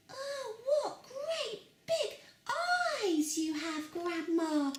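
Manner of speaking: put-on high, slow and giggly girl; giggly little girl in awe. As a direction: wonder at it like a tiny girl, giggling. Girl voiced in the story.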